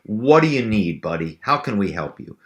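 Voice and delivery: imitating a tickled, friendly offer of help; lightly voiced buddy eager to help; amused, chummy helper. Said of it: "and as they're laughing, they're going".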